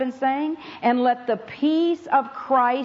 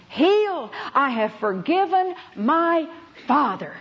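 joyful relief; 4 semitones higher than usual. Retold or imitated. Girl returns radiant after forgiving.

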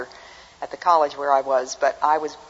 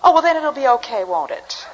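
put-on high, earnest old lady voice; dead-serious old lady; 10 semitones higher, 8 dB louder than usual. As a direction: imitate an old lady taking it in all seriousness. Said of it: "this lady was dead serious".

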